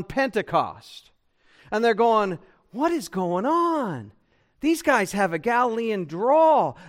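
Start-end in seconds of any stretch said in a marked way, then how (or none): 2.7-6.8 higher-pitched, astonished question; mock astonishment, pitched up; amazed onlookers. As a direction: act out a baffled crowd. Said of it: "they were amazed and astonished".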